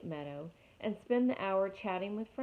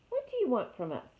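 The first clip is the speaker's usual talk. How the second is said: growl; 5 semitones higher, 4 dB louder than usual. Acted. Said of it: "growled Fink".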